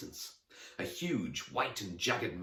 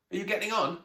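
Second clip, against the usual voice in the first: put-on young girl voice; 12 semitones higher, 5 dB louder, faster than usual. A narrator's reading. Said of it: "she asked".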